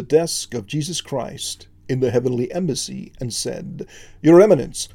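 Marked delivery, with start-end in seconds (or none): 4.2-4.9 loud ceremonial address; formal announcement. Acted. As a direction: proclaim it to the court. Court angel opens formal address.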